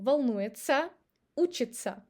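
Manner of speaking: волнуется and учится ending in tsa; волнуется, учится with -тся said ца; учится said uchitsa. Shown as a demonstration. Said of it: "We pronounce it as ца".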